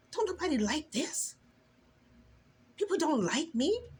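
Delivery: retold angry prayer. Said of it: "I was angry with him".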